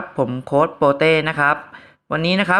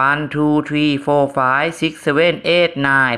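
very slow, drawn-out counting; much slower than usual. Shown as a demonstration. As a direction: count each number out slowly. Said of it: "เราจะให้จังหวะในการนับ".

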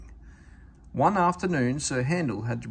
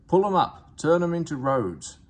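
rude steamroller; 5 semitones higher, 6 dB louder than usual. A narrator's reading.

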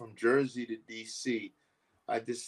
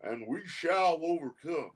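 put-on Southern accent. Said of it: "in a Southern accent say".

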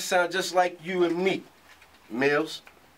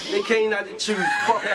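shouting; 3 semitones higher than usual. Real, not acted. Battle rapper shouts a punchline.

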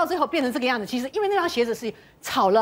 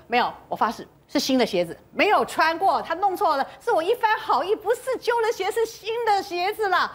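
insistent denial climbing higher; protesting innocence; 5 semitones higher than usual. Retold or imitated. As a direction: retell an indignant self-defence, pitch rising. Acts out accused woman's protest.

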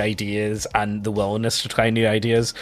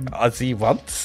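put-on son's German accent; 2 semitones lower, 3 dB quieter, much slower than usual. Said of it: "this weird German accent".

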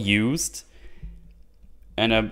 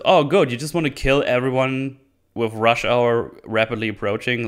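sarcastic retort. Retold or imitated. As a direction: throw the "Oh, good" back with sarcasm. Tangerine mocks the villain.

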